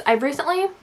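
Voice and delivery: breathless, words pushed out between breaths. Real, not acted. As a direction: talk while catching your breath. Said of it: "sorry, I'm out of breath".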